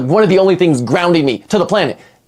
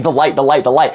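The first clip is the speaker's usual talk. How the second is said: lower, dazed, stuck on repeat; 5 semitones lower than usual. Retold or imitated. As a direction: repeat it low like you're spaced out. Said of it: "I start tweaking out, just saying".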